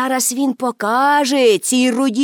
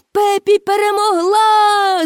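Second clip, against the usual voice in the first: higher, slow, louder victory shout; 9 semitones higher, 3 dB louder, slower than usual. A narrator's reading. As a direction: build the cheer bigger. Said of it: "закричали глядачі".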